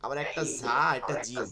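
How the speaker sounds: ঝা with a buzzing z, জিম with a hard j; contrasted letter sounds. Shown as a demonstration. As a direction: set z-like ঝা against j-like জিম. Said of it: "উচ্চারণের তফাৎ আছে কিন্তু".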